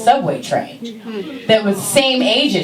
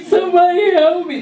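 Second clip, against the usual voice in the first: much higher, desperate plea; lost child crying out, much higher; pleading kid; 12 semitones higher than usual. Retold or imitated. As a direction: beg for help on the street. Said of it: "I was like".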